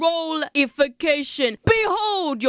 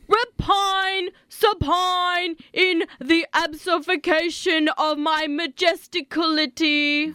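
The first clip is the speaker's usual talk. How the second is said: grandiose alien; 2 semitones higher than usual. Acted. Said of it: "That is not how I talk".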